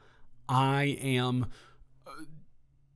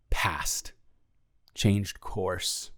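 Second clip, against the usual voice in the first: whispered dread; 6 semitones lower, 4 dB quieter, much slower than usual. Real, not acted. Dread at the thought.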